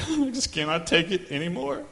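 a hint of a weary wife, slow and sighing; mock wife lament; wife complaining. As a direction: play the fed-up wife lightly. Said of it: "she is like".

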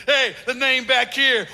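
slow, pointing at the name on his back; showboating player. Retold or imitated. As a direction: show off to the camera, drawn out. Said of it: "they go to the camera and like this".

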